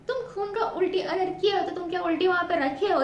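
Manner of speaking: scoffing through laughter; laughing mockery. Real, not acted. Mocking the boyfriend's staged vomit to viewers, laughing. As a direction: tease him while laughing.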